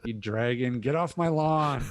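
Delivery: put-on cranky old man yelling at a dragon; grumpy old man. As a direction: shout it like a fed-up old geezer.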